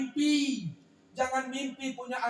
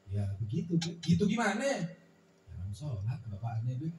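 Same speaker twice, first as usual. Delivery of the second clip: put-on sheepish child; 8 semitones lower than usual. Child answers mother in acted dialogue.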